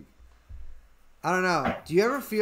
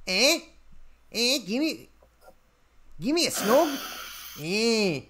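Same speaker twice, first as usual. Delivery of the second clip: higher-pitched mock Australian accent; Margot Robbie; 3 semitones higher than usual. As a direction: imitate an Australian woman with questioning lifts. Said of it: "She's from Australia".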